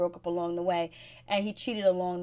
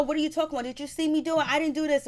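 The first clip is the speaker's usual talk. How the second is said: higher, indignant retold protest; mock-defensive, pitched up high; indignant denial; 5 semitones higher, faster than usual. Girlfriend denies cheating in quarrel.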